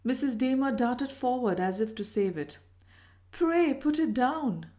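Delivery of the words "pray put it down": anxious, higher-pitched plea; slow, raised, mildly nervous request. A narrator's reading. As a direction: plead slowly, a touch nervously. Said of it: "she said nervously".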